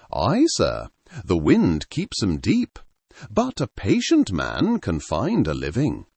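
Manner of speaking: a hint of a rustic Sussex fisherman's accent, low burr; local Sussex accent. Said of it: "his voice a low burr, thick with the local accent".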